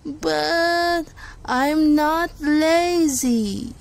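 calm, unhurried sloth; lazy, mellow animal drawl; slow sloth voice. Acted. Sloth character answers slowly.

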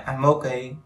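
"I'm okay" run together as "am-mokay"; linked sounds. Shown as a demonstration. Teacher showing learners "I'm okay", linked sounds. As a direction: link the m of "I'm" smoothly into "okay". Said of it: "nó sẽ nhanh như vậy".

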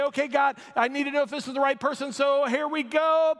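mock dramatic prayer. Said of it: "we sit there and we say".

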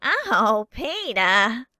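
leering Oh, Peter; Quagmire aside. Retold or imitated. Neighbour addressing Peter, leering impression. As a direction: purr the name like the sleazy neighbour. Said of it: "some of these impressions".

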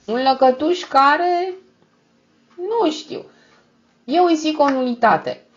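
high, slow, sweetly innocent answer; lightly voiced angelic deaf man. A narrator's reading. Deaf brothel owner answering Eugene, high and angelic. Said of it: "răspundea cu o voce angelică".

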